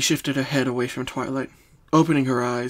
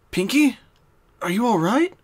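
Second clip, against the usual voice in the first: raised, gently concerned mare; Twilight's voice; 9 semitones higher, 4 dB louder than usual. Acted. Twilight checking on her dazed friend, concerned.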